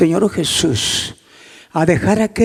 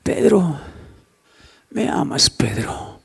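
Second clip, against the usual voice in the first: hushed question; 3 semitones lower, 6 dB quieter, slower than usual. Retold or imitated. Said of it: "Le vuelve a preguntar Jesús a Pedro".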